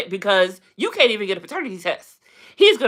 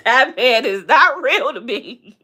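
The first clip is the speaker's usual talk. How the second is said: laughing; 2 semitones higher than usual. Real, not acted. Laughing at Elon.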